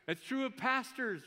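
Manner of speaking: squeaky high mock reply, laughing; high playful voice. Pastor playfully answering the church in a squeaky voice. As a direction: answer back in a silly high falsetto.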